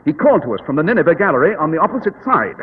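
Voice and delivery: calm, superior detective explaining; Sherlock Holmes. Acted.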